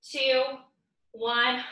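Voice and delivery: tired from a workout; counting while straining; exercising while talking. Real, not acted. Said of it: "My glutes are so tired already".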